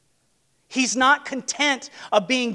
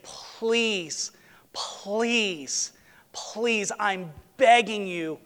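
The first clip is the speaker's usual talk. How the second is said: softer, breathless whispered please; whispered pleading; 3 dB quieter, much slower than usual. Acted. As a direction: beg in a hush across the table. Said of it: "and he's pleading".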